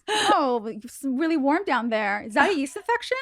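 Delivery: high, teasing fake groper voice; high mock groper. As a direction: ham up a creepy groper, pitched high.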